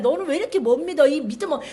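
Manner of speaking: hammed-up impatient scolding; mock rebuke. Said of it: "이게 아니신 것 같아요".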